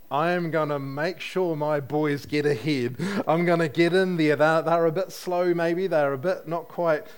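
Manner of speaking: loud, eager pushy mother; pushy mum. Retold or imitated. Preacher voicing a mother pushing her sons ahead, loud and eager. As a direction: push your boys forward like a proud mum. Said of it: "Mum is doing what mums do".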